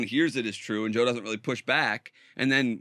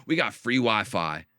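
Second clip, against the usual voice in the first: mock deep taunt; 5 semitones lower, slower than usual. Imitating the influencer taunting Rogan in a video, deep mock taunt. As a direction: lower voice, hammed-up manic taunt. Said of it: "he's like".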